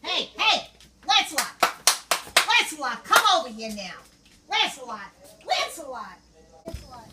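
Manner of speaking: shouting for the dog; calling from far away. Real, not acted. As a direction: call out loud across the yard.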